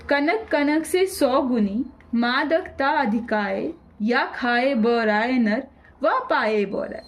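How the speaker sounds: slow, measured verse reading; recited couplet. Acted. Teacher to students, slowly reciting a verse example. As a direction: give each line weight.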